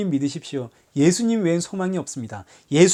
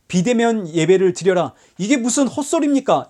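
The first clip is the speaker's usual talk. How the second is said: mimicking an outraged church protest; mock outrage; 2 semitones higher than usual. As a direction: scoff at the order as nonsense. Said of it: "이러고 지금 교회가 목소리를 높이고".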